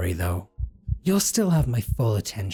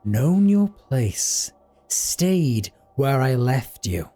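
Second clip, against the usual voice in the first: furious monster, slowly punching each word; cold scolding; 2 semitones higher, much slower than usual. Acted. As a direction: lay down the law to the runaway. Captor scolding runaway captive.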